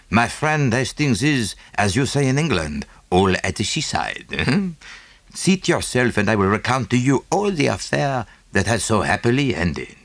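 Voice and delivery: put-on lightly French-accented little detective; a touch of French accent, beaming; Poirot. Poirot voiced in reading.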